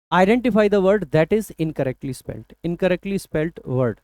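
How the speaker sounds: slow, deliberate reading of the question; measured exam-question read. Shown as a demonstration. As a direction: read it out slowly, word by word. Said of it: "reads the question slowly".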